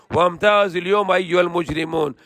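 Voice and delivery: swift, even Quranic recitation. Acted. Preacher reciting the verse to listeners in quick chant.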